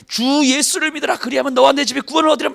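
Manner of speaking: street preaching. Pretend. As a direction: belt it out like a street preacher with a microphone. Pastor imagines street preaching with mic.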